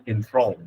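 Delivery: "enthralled" with an o sound in the second syllable; o vowel. Shown as a demonstration. Teacher drills the o vowel in "enthralled". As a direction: say "enthralled" as en-THRAWLD. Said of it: "Âm o nha".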